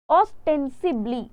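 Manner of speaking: ostensibly drawn out very slowly, every syllable clear; slow careful pronunciation. Shown as a demonstration. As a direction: spell out ostensibly with your voice, slowly. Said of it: "अब आ जाते हैं next". (ostensibly का धीमा, साफ़ उच्चारण)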